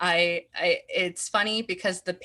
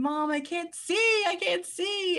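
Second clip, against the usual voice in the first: put-on very high, frightened, drawn-out small-child scream; 12 semitones higher than usual. Retelling fainting as a child and calling for mom: imitating a child screaming. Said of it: "I just screamed".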